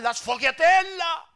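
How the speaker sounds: put-on high, loud, drawn-out Italian accent; hammed-up Italian food enthusiast, pitched high; imitated Italian. Locals urging a visitor to eat sfogliatella, imitated Italian. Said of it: "Desde que aterricé a Italia, todos me hablaban".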